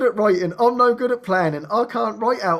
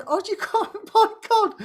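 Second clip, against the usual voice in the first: amazed; 13 semitones higher than usual. Real, not acted. Overwhelmed by Dom's generosity.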